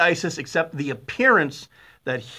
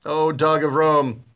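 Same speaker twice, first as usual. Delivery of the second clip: mock tender recital; 3 dB louder, slower than usual. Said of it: "Sounds like a love poem".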